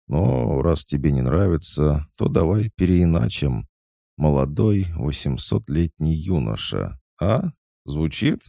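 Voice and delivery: proud. A narrator's reading. Goddess offering her friend a new nickname, proudly. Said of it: "гордо произнесла Хаски".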